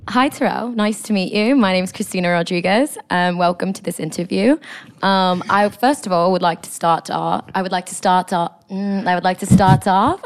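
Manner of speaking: half-committed British interviewer; formal job interviewer with a light British accent. Pretend. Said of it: "your British accent, like, is good".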